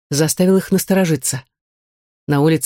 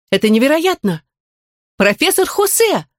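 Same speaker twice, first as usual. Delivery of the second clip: amazed cry, much higher and slowed; exclaiming; 8 semitones higher than usual. A narrator's reading. Girl recognising her teacher, amazed. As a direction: gasp out the name in disbelief. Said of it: "воскликнула Нина".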